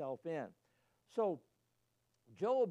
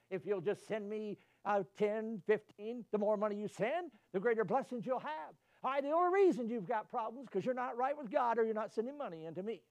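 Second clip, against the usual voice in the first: a hint of a money-grubbing preacher, raised and pushy; mock televangelist; 4 semitones higher, 4 dB louder than usual. Preacher mocking televangelists, lightly pushy and loud. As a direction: sell the blessing like a huckster. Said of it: "evangelists that will preach and tell you".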